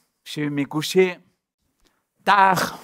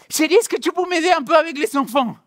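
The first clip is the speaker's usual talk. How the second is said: sweet request; 9 semitones higher than usual. Retold or imitated. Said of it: "Il me sort une phrase".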